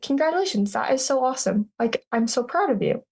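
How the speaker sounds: lightly voiced kind stranger at the airport, thrilled for her; gushing stranger. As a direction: mimic a friendly stranger bubbling with congratulations, not overdone. Stranger congratulating at layover.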